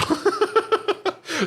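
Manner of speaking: bright high-pitched laugh. Real, not acted. Laughs after missing it.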